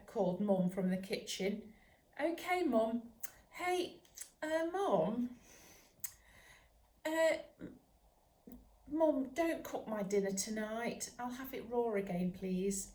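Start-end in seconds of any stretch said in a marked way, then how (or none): 2.2-12.9 eager pup. Acted. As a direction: ask sweetly, hesitating. Puppy asks mum for raw dinner.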